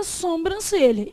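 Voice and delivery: "sobrancelha" said as "sombrancelha"; wrong pronunciation. Shown as a demonstration. Teacher quoting common speech, "sobrancelha" with nasal SOM. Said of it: "embora o certo seja o quê?".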